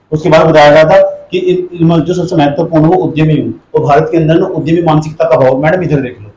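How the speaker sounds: ordinary talk, nothing marked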